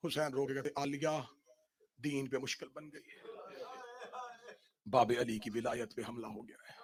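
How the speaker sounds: soft, low, grieving recital; hushed majlis narration. Acted. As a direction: draw the crowd in quietly. Hushed recital of the night scene. (دھیمی غمگین آواز میں بیان)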